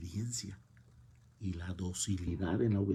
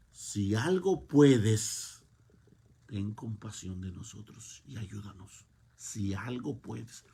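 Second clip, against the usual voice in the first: slow, drawn-out doubting plea, loud at the start; doubtful plea; 4 dB louder, slower than usual. Retold or imitated. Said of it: "Ese es el tono y la forma de la fe".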